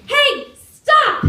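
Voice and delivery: high, loud shout after a thief; desperate shout to stop him; retold yell. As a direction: yell it at a fleeing motorbike. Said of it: "and I yell at him".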